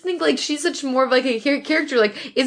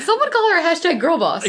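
playful shout; 5 semitones higher than usual. Real, not acted. Jokey cheering.

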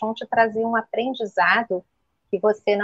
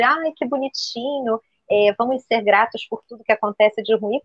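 mocking sweet voice. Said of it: "E não é a balela de".

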